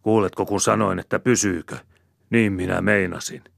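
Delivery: furious insistence; roaring. A narrator's reading. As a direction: bellow it to silence her. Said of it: "ärjähtää Käkriäinen".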